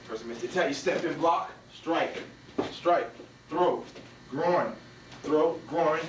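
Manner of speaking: deliberate, spaced-out instruction; walk a student through it move by move; slow step-by-step count. Shown as a demonstration. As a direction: call each move separately with pauses.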